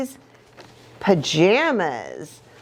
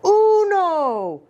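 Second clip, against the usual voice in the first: high shouted count; a dog barking out one; 8 semitones higher than usual. A narrator's reading. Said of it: "as the doggy shouted".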